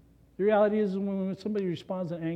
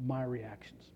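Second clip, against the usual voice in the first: whisper; 5 semitones lower, 10 dB quieter, slower than usual. Real, not acted. Point dropped to a hush.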